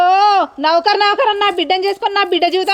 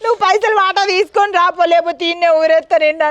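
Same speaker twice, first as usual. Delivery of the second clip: tearful plea. Acted. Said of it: "ఎందుకు ఏడుస్తున్నావు?".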